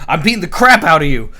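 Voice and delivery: loud, forceful mock threat; punchy imitation of someone on the attack; retold aggression. Retold attacker answering the king.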